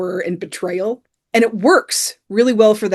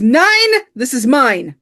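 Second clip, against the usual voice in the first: quoting Hans; 5 semitones higher, 4 dB louder, slower than usual. Retold or imitated. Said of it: "And Hans just says".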